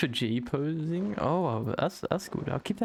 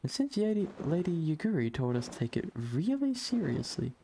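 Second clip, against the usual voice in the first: put-on eager young boy; 3 semitones higher than usual. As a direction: play the boy Yozan, eager and friendly. Voicing the boy Yozan.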